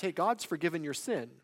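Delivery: casually stating a fact; matter-of-fact. Acted. Preacher voicing someone merely reporting God's forgiveness, matter-of-fact. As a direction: pass it on as simple information. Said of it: "a fact".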